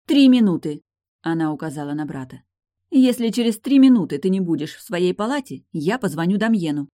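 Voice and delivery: loud, high furious ultimatum. Acted. Furious sister giving her brother a deadline, loud. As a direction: bark the deadline at him. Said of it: "разъярённая Лой".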